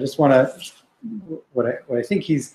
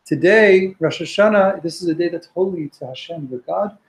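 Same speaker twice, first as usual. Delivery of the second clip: prophet's plea; 3 semitones higher than usual. Acted. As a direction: call out to stop a weeping crowd. Voicing Nehemiah comforting the crying nation.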